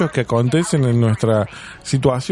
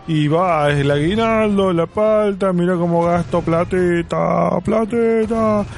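higher, slow boastful friend showing off; mocking Tincho; 4 semitones higher, slower than usual. Friend mimicking Tincho bragging at the greengrocer, mildly hammed up. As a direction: lightly ham up a show-off buying avocado. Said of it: "Y él dice".

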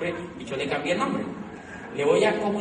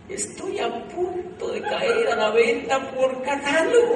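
inner voice laughing; 6 semitones higher, slower than usual. Retold or imitated. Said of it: "decía mi corazón".

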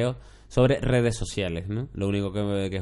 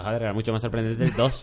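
laughing. Pretend. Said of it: "siempre pienso".

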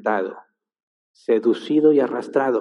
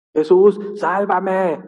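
desperate plea; 7 semitones higher, 4 dB louder, much slower than usual. Retold or imitated. Peter sinking cries for help.

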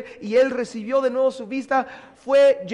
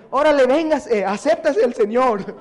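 pushy Paul; 2 semitones higher, 7 dB louder than usual. Acted. Paul pressing people to convert.

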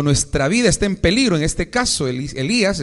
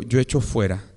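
prayer declaration. Acted. Y diga conmigo.

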